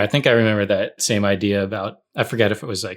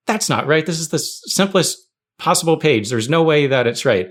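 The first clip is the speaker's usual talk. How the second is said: higher pitched, protesting the result; retelling a stunned protest, pitched up; indignant disbelief; 5 semitones higher than usual. Retold or imitated. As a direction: insist it can't be right. Insisting the test is wrong.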